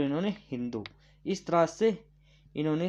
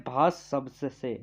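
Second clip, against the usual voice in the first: slow emphasis; 2 semitones lower, slower than usual. Shown as a demonstration. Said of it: "भाषा किस शब्द से बना है".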